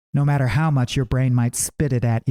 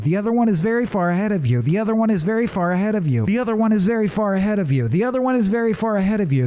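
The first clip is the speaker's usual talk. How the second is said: talking rock; 6 semitones higher, faster than usual. Acted. Talking rock repeats one line.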